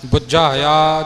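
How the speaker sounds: loud ਬੁਝਾਇਆ, leaning on the first syllable; emphatic "BUJ-haya" for ਬੁਝਾਇਆ; weight on B. Shown as a demonstration. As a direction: press on the b of ਬੁਝਾਇਆ. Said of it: "ਥੋੜ੍ਹਾ ਜਿਹਾ ਭਾਰ ਬੱਬੇ ਉੱਪਰ ਦੇ ਕੇ".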